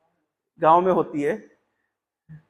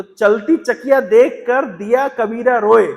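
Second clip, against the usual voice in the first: slow verse recital; 3 dB louder, slower than usual. Acted. Reciting Kabir's doha again.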